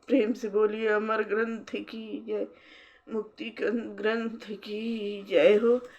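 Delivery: jaikara with drawn-out endings; devotional acclamation. Real, not acted. Leading praise of the holy book after aarti, devotional acclamation. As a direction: stretch out each closing "jai ho".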